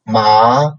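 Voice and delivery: MA sliding upward; second tone. Shown as a demonstration. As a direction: lift the pitch steadily through MA. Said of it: "second tone".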